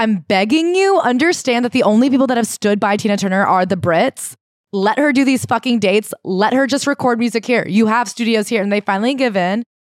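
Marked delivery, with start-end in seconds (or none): none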